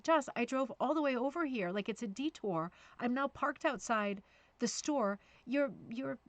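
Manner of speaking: exasperated parent pushing the point up. Retold or imitated. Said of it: "I shouldn't raise my voice".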